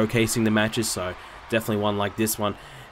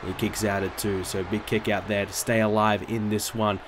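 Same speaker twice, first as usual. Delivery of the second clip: live ringside play-by-play; wrestling commentator; 3 semitones higher than usual. Acted. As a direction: call the match like a TV announcer. Live play-by-play of game match.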